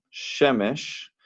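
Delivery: Shemesh stressed on SHE, not at the end; stress first syllable. Shown as a demonstration. Teacher repeating for students where the stress falls, stressed SHE-mesh. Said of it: "que no es al final".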